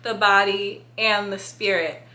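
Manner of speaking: talking with a retainer in; slight lisp, retainer in mouth. Real, not acted. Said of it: "put up with my lisp".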